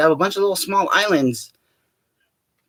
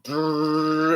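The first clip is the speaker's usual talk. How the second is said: rolled lip-buzz rumble; a shuddering brrr noise; rumbling brrr. Retold or imitated. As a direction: imitate the whole world shaking. Imitates the shaking world.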